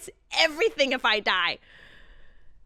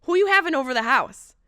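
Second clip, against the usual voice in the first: teasing; 8 semitones higher than usual. Retold or imitated. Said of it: "I said".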